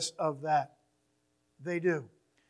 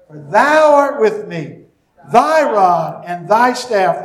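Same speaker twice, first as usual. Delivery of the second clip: louder, measured Psalm read aloud with key words hit; solemn, deliberate recitation; emphatic scripture reading; 5 dB louder than usual. Acted. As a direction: lead the congregation through the Psalm. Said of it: "emphasize the words that I have emphasized".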